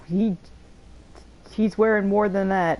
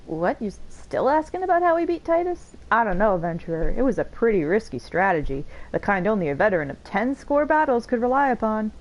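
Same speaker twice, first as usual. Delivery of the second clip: lightly voiced bragging veteran; boastful old warrior. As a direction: swagger through the tale of glory, hammed-up a bit. Reads Tractome lines again.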